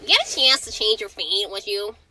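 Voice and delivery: nasal-free plain nerd read. Acted. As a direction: say it like a bookish nerd. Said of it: "Is that a nerd voice?".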